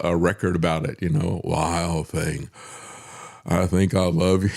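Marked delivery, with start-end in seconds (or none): 1.4-4.5 lightly imitated slow, low-voiced senator; slow it right down, a touch lower; Everett Dirksen. Host mimicking a senator's record of a song, slow. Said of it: "the way that he talked".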